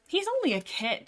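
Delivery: fond, high-pitched coo; indulgent, lifted voice excusing a youngster. A narrator's reading. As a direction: say it fondly, pitched well up. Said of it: "Dappletail pointed out fondly".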